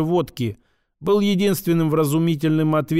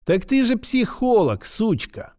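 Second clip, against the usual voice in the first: almost mocking drawl; 6 semitones higher than usual. A narrator's reading. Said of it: "Почти с издёвкой протянула".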